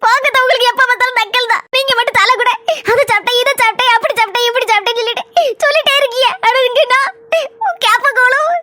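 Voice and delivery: whiny, sniffling grievance; put-on tearful complaint. Wife complaining about diet food, hammed-up tearful whine. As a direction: play up the suffering between little sobs. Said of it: "நல்லா நடிக்கட்டி".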